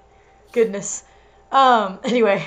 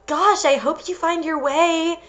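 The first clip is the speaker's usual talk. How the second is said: higher, fake-sweet worry; fragile, concerned; 6 semitones higher than usual. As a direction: sound falsely caring. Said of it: "her voice fragile with concern".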